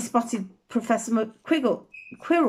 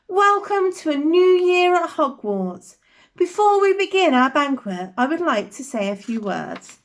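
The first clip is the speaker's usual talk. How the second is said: headmaster's welcome; 4 semitones higher than usual. Acted. Headmaster addresses the hall.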